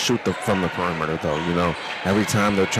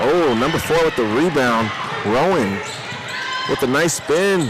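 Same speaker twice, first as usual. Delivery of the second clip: excited play-by-play; 4 semitones higher, slower than usual. Real, not acted. Live play-by-play call.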